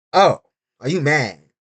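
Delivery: slow, mocking taunt. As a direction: drawl it out like teasing a sore loser. Taunting critics.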